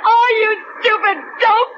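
shrill laughing into crying shout; hysterical laughter. Acted. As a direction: crack up hysterically, then scream.

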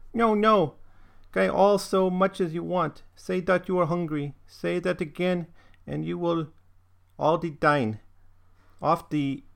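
put-on high-pitched German-accented mother; remorseful mother in halting German-accented English; German dialect. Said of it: "this is in this dialect".

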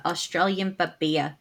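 badly faked Aussie accent; bad Australian accent. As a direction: try an Australian accent and miss. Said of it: "I can't do Australian".

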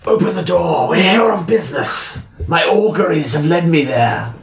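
in-character disguise voice. Acted. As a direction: play a bold seer demanding entry. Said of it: "I'm still dressed as, uh, Flencia".

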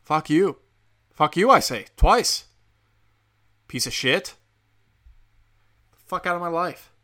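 loud, furious cursing; angry shout. Real, not acted. Podcaster cursing out Kaepernick, a furious shout. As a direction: bark the curses out in full anger. Ranting curse at player.

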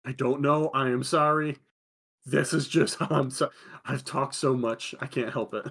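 lightly put-on foreign accent after a trip to Japan; mock returned-traveller accent, slowing as it goes; imitated acquired accent. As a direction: apologise in a faintly affected foreign accent. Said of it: "they come back with an accent".

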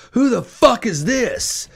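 high, startled mock yell; high shocked yell of an angry wife. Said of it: "my wife goes".

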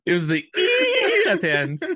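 loud high laugh breaking through words; laughing hard. Real, not acted. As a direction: burst out laughing mid-sentence. Cracking up at game.

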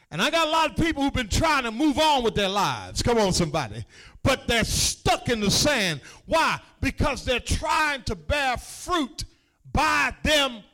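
loud driving preacher's cry; fervent preaching. Acted. Pastor urging stuck believers, loud fervent preaching. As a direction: build it and hammer the end.

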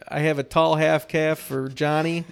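hammed-up imitation of a prince at the counter; Prince Harry ordering coffee. Prince Harry orders at a Starbucks, mock posh voice. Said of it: "and Prince Harry was like".

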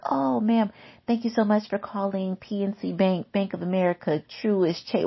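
sweet fake customer-service voice; legit bank rep. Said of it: "going to sound legit".

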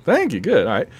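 strained, tired voice; losing voice. Real, not acted. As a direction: voice starting to give out. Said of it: "I'm losing my voice".

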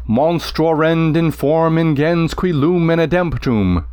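slow, heavy lunging Latin line; limping recitation. Shown as a demonstration. Teacher reading the Cyclops line, slow and lurching. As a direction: drag it like a limping monster. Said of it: "Can you hear that limping".

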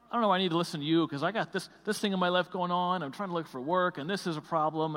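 mild angry retort. Retold or imitated. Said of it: "he was so angry".

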